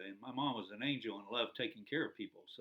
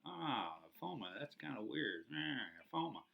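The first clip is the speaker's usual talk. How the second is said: crowd murmur; 6 dB quieter than usual. Retold or imitated. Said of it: "people in the crowd kinda going".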